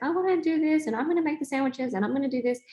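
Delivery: a lightly voiced eager child, high then quick; eager kid volunteering. Child volunteering to make sandwiches, light eager kid voice. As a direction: chirp it like a keen kid volunteering.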